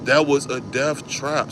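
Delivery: slow, soft, low muttered thought; inner thought. Retold or imitated. Teller thinking to himself after the escape, slow and soft. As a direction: say it slowly under your breath, stunned. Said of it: "In my head, I'm like".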